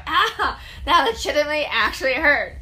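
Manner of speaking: high, loud retold cry of pain; mock pain. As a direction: act out a pained yelp with a laugh in it. Re-enacting pain from the video.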